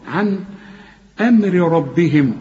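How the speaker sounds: عن أمر slow, crisp n before the hamza; clear unhummed n. Shown as a demonstration. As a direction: join عن to أمر with no nasal hold. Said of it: "نون ساكنة بعدها همزة ما تغنش".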